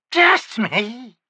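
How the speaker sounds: high cackling crone; cackled. Acted. Witch answering the wizard with a cackle. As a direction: cackle the words. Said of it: "the woman cackled".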